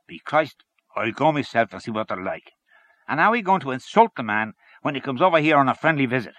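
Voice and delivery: loud, lively persuader; hearty, opinionated Henchy. Acted. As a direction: hold forth to your cronies with gusto. Voices Henchy arguing in story.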